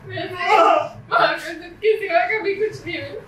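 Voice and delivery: words broken by sobs; sobbing. Acted. Daughter pleading with her brother while sobbing. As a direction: plead through heavy crying.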